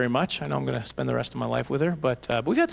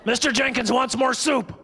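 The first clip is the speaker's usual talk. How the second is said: slow, high eerie sleep-talk; creepy sleep talker; 8 semitones higher than usual. Acted. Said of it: "I talk her in my sleep".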